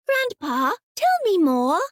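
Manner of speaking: put-on high, keen child's plea; a small girl begging for a story; eager little girl. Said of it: "Sasha asked immediately".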